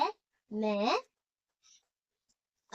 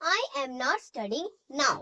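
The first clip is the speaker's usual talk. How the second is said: very slow, word by word, for students to write; slow dictation; much slower than usual. Shown as a demonstration. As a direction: spell it out slowly so the class can copy. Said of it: "dictation to students".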